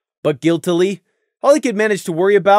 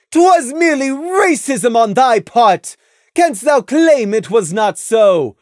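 high, loud royal interrogation; imperious moon princess; stern princess Luna; 9 semitones higher, 5 dB louder than usual. A narrator's reading. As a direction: press them like a stern royal judge. Luna accuses Prey.

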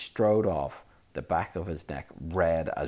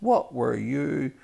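shocked; 9 semitones higher, 7 dB louder, slower than usual. Acted. Percy shocked.

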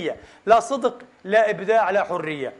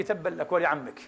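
1 inner curse; 5 semitones lower, 7 dB quieter than usual. Retold or imitated. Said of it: "قلت في قلبي".

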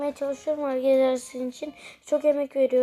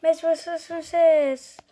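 put-on old radio announcer; 3 dB louder than usual. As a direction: announce it like a match commentator. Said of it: "Spiker gibi konuşuyorum arkadaşlar".

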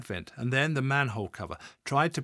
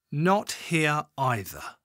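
level voice; 4 semitones higher, 5 dB louder, much slower than usual. A narrator's reading. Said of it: "how level he managed to keep".

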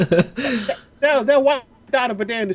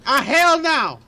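put-on raised, country-accented refusal; Southern accent; 5 semitones higher, slower than usual. Player reacts to the spooky basement in character, Southern accent. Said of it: "We're going southern accent already".

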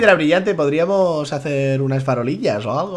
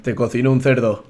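blunt; 6 semitones lower than usual. Pretend. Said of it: "Qué cruel suena así".

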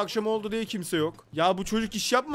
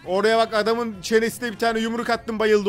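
boastful brag; 4 semitones higher, 5 dB louder than usual. Acted. Bragging after punching a man.

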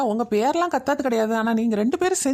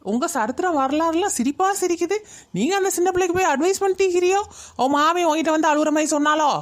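mildly indignant, raised-pitch challenge; scornful scolding; 3 semitones higher than usual. Acted. Woman confronting meddlers over advice to a girl, scornful scolding. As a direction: take them to task with mock questions.

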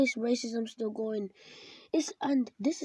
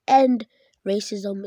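loud slogan; 6 dB louder, slower than usual. Real, not acted. Closing slogan against racism.

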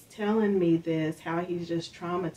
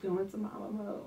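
whispered aside; 2 semitones higher, 7 dB quieter than usual. Retold or imitated. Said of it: "students are going".

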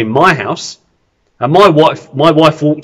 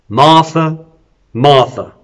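calm voice; 2 semitones lower, slower than usual. Acted. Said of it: "in a calm voice".

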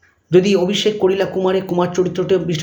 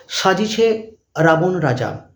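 dictating; much slower than usual. Shown as a demonstration. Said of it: "চলে এসো তিন নম্বরের পরের প্রশ্নে".

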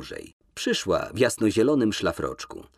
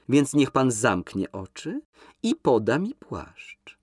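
slightly higher, coy command; lightly voiced young woman; 5 semitones higher, slower than usual. Woman in the bath telling him to shut his eyes, coy. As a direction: order him sweetly to close his eyes.

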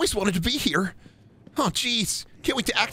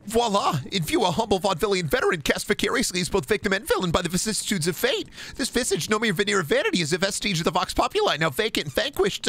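V for Vendetta speech. Pretend. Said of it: "I just memorized the V for Vendetta speech".

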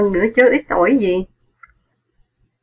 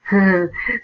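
hearty laugh. A narrator's reading. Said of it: "Tư Lắm cười giòn".

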